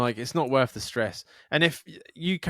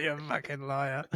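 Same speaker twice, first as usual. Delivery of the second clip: laughing mock retort; 8 dB quieter than usual. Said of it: "And you're like".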